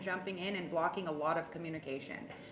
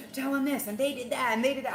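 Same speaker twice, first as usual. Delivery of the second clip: goddess voice; 7 semitones higher, 6 dB louder, faster than usual. Pretend. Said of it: "It's like".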